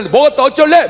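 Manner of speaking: lightly acted Gyeongsang sass; defiant Gyeongsang woman. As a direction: toss it back like a tough Busan woman. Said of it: "우리가 옆에서".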